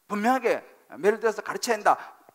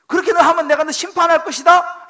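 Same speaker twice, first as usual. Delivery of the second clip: loud, high stern warning of judgment; God's stern warning; 7 semitones higher, 10 dB louder than usual. Retold or imitated. Preacher voicing God warning the congregation, loud and stern. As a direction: thunder it out as God pronouncing judgment. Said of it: "라고 지금 말씀하시는 것입니다".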